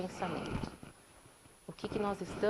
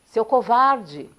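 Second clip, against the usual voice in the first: echoed insult; 12 dB louder, much slower than usual. Retold or imitated. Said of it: "recebe uma voz".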